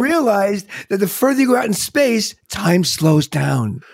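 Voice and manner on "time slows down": drawn out very slowly; slow-motion delivery. Shown as a demonstration. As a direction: stretch every word like time slowing. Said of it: "Oh, that was a nice one".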